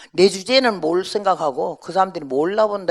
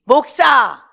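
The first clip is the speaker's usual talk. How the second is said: loud, much higher calls; old mother shouting; 11 semitones higher, 10 dB louder, slower than usual. Retold or imitated. Pastor's old mother shouting for son and daughter-in-law, loud and high. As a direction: holler across the house for them.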